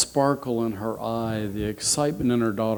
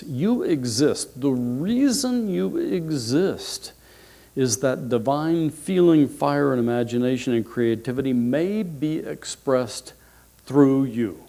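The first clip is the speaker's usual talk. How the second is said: thoughtful emphasis. Real, not acted. Speaker repeating the quotation so listeners think about it, reflectively. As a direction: let each phrase sink in. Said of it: "Really think about this".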